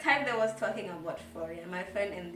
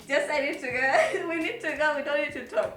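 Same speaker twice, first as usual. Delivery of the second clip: louder, fast, higher retold outburst; snapping at him, fed up and raised; angry; 5 semitones higher, 7 dB louder, faster than usual. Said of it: "I was so angry".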